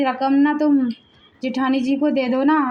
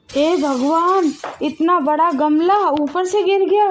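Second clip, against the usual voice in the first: shaken gasp; 4 semitones higher than usual. Acted. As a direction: react to the close call. Relief after near miss. (बाल बाल बचने पर धीमी, ऊँची हैरानी)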